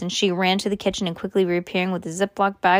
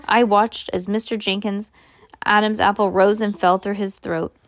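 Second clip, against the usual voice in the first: ordinary delivery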